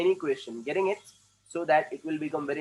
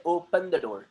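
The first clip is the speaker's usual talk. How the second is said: British accent; much slower than usual. Shown as a demonstration. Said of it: "British लोग बोलते हैं".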